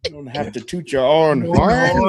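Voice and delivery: slow, drawn-out movie quote; lightly hammed-up film character, slow; Lady Eloise. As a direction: stretch out the final horn in a playful impression. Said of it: "and she said".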